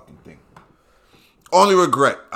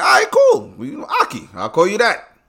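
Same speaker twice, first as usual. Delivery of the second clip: very high, held-back laugh voice; falsetto polite; 12 semitones higher, 6 dB louder than usual. Retold or imitated. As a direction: fake cool while holding a laugh.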